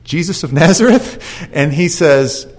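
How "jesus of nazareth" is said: unsure rising question; different tone. Retold or imitated. Soldiers, shaken, answer unsure with rising question. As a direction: ask it timidly, rising at the end. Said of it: "in a completely different tone".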